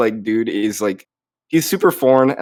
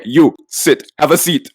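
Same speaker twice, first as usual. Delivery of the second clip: blunt two-word order; just tell them to sit, no courtesy; imitating the rude waiter ordering them to sit; curt command; 3 semitones higher than usual. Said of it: "he's like".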